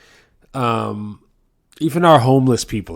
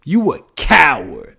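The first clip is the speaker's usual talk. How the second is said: much higher and louder, spitting the insult; outraged yell; 11 semitones higher, 7 dB louder than usual. Retold or imitated. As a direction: bellow it at the stingy guy who refused you. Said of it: "He goes".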